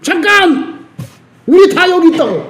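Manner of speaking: sharp high cry of 잠깐; shouted stop. Pretend. Paul yelling to stop the jailer, loud. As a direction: yell 잠깐 high to halt him. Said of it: "크게 소리 질러".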